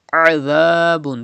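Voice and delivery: "Azabun" as a-dhaa-bun; Zal without whistle. Shown as a demonstration. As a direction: soften the z of "Azabun" to a voiced th. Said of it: "Pronounce Zal without whistle".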